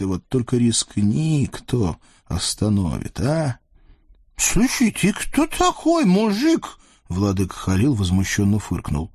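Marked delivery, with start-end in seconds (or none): 4.4-6.8 high, slow, leering eastern sultan voice; lecherous sultan. Acted. Sultan leers at the captive women, high and gloating. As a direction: purr over the captives like a greedy sultan.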